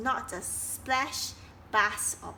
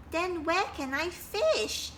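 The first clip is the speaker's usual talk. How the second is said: sad; 7 semitones higher than usual. Acted. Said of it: "said Kingfisher sadly".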